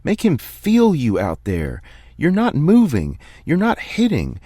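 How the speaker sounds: a calm man finally coming apart, yelling at his player; screaming coach. Acted. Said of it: "then starts screaming".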